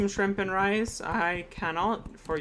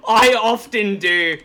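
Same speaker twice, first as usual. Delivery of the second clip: SpongeBob voice; 6 semitones higher, 11 dB louder than usual. Pretend. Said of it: "Why does that sound like SpongeBob?".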